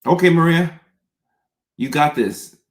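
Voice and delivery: high, loud, psyching herself up; self pep talk. Real, not acted. Host bracing for viewer questions, a loud self pep talk. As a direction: cheer yourself on out loud. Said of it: "pep-talks herself".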